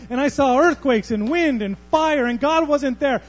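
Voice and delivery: loud, high and booming testimony; thundering proclamation. Retold or imitated. Elijah's testimony of God's voice, loudly proclaimed. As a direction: proclaim it like thunder shaking you. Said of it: "a loud, thundering voice".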